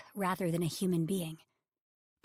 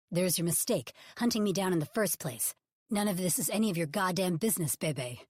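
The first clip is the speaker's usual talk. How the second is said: loud, cold rebuke; thunderous; 4 dB louder than usual. Acted. Ridge rebuking his publicist Bebe, loud and thunderous. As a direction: shut her down hard. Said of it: "Rich's voice is pure thunder".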